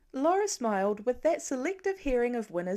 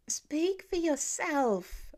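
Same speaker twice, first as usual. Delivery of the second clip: grousing; 6 semitones higher, much slower than usual. A narrator's reading. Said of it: "Lila groused".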